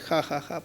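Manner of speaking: soft, low spoken ha-ha-ha; mock laugh. Preacher imitating overconfident Sansón, mock laugh. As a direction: toss off a quiet, fake cocky laugh. Mocking Samson's confidence in retelling.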